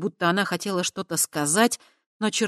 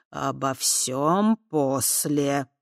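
very slow, firm cut-off; stern; much slower than usual. Acted. Fat man sternly postponing her questions, very slow. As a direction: shut the topic down sternly. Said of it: "строго сказал он".

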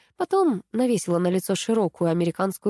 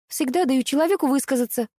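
mildly heated protest, pitched higher; simmering indignation; 6 semitones higher than usual. A narrator's reading. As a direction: bristle with restrained indignation. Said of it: "кипела я".

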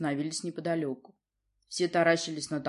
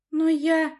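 put-on much higher girl's voice, cut off; faltering girl; 11 semitones higher, 8 dB louder than usual. A narrator's reading. Daughter tries to defend herself to her father, faltering. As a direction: start to object and break off.

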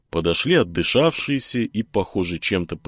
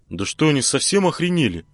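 indignant; 8 semitones higher than usual. Acted. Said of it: "возмутился Геша".

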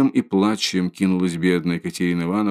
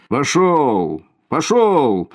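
higher, louder barked orders to the crowd; gruff order; 5 semitones higher, 4 dB louder, much slower than usual. A narrator's reading. Policeman orders the onlookers away, loud. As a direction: drive the crowd back.

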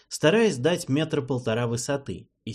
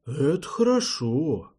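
pleased grunt; 4 semitones higher, slower than usual. Acted. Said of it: "довольно крякнул Валет".

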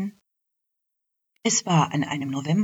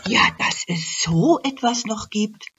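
amazed; 5 semitones higher, 4 dB louder than usual. Acted.

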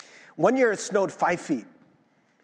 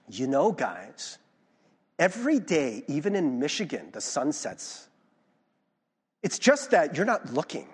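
obnoxious preachy; 3 semitones lower than usual. Retold or imitated. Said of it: "I didn't need to say it so obnoxiously".

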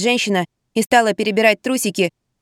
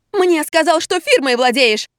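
shrieking; 9 semitones higher than usual. A narrator's reading. Galina shrieks at her lover on the phone. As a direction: shriek and stamp in fury. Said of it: "завизжала Галина".

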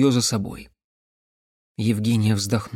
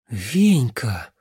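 mildly relieved breath of a name; relieved exhale; 2 semitones lower than usual. A narrator's reading. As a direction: let it out with understated relief. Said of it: "облегчённо выдохнула девушка". (облегчённый выдох)

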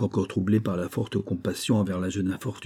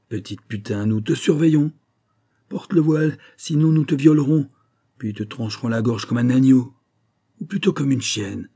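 menacing threat; 4 semitones higher, 4 dB louder than usual. Retold or imitated. Thug threatens the sister.

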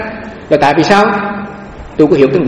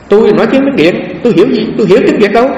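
normal talking voice

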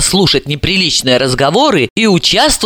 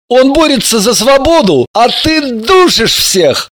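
haughty exclamation; 7 semitones higher than usual. Acted. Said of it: "заносчиво воскликнул Альберт".

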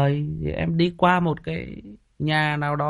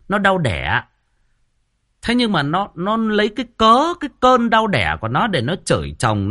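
normal talking voice

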